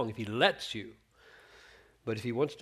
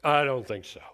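defiant retort; 6 dB louder than usual. Retold or imitated. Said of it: "the question that says".

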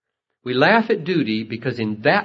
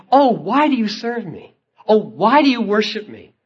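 mock dutiful question; 10 semitones higher, 8 dB louder than usual.

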